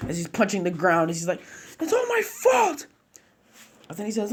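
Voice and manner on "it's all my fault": very high, slow wailing; high grief-stricken wail; anguished self-blame. Acted. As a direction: cry it out in despair. Naruto blames himself.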